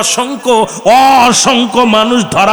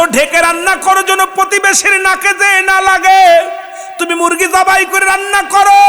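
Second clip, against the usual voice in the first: fiery preaching; 10 semitones higher than usual. Acted. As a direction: preach it out full force to the crowd. Preacher rises to full force.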